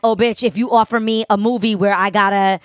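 high, loud, eager "I'm ready" voice; hammed-up hungry actress begging for a role; gushing to a producer about any role, high and loud. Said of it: "staying prepared".

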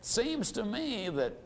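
acted hesitance, halting with long pauses; timid, hesitant prospect. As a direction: trail off softly, reluctant to finish the objection. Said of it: "might be a little timid or a little hesitant".

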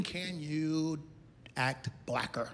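low, soft, hesitant ask; hushed request. Retold or imitated. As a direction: imitate someone nervously whispering a touchy question. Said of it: "They whispered".

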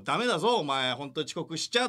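mock scolding; imitating a scolding senior. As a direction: tell him off like a senpai. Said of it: "って言ってたのが、小宮だったのね". (先輩っぽく叱る真似)

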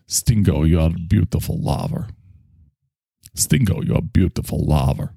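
slightly Russian-accented film line. Shown as a demonstration. Showing the learned Sophie's Choice line, light Russian accent. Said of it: "Finally, I could kinda do Russian".

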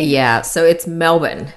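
Melbourne said as MEL-bn with the second vowel swallowed; Melbourne with the middle vowel rushed and the R lost; Melbourne, Australian way. Shown as a demonstration. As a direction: say Melbourne quickly and drop the R, slowly. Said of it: "Can you give us all a lesson on how to say the name".

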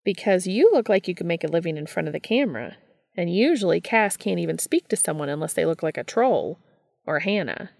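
a hint of a needling brother; quick, mocking tease; lightly voiced Gabriel, teasing.

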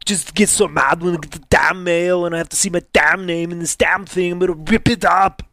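fast, worked-up tirade; mock angry rant. Venting about the damn mail, rapid mock-angry rant. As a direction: rattle it off as if fuming.

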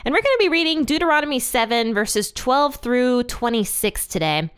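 speaking through hiccups. Real, not acted. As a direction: voice catching on hiccups. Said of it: "excuse my voice. I have, um, hiccups".

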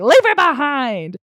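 high, drawn-out retold outburst; mock furious command. Daughter tells boyfriend to leave her mom, mock-furious and drawn out. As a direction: stretch it out high, imitating an exasperated order.

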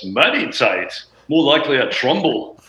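light British accent imitation of the guitarist; a dry British quip, lightly put on. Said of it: "he's got this great British accent".

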